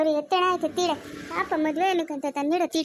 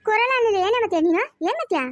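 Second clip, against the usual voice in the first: louder, higher, challenging the other woman; angry demand; 4 semitones higher, 3 dB louder than usual. Acted. Woman shouts at Saraswati over the stolen sari, angry and raised. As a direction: snap back, ready to fight over the sari.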